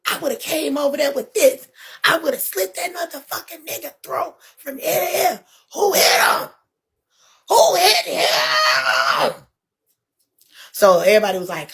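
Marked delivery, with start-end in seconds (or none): 0.1-9.3 higher, tearful, breaking into a sobbing shout; crying threat. Retold or imitated. Precious wailing threats on her live stream, sobbing shout.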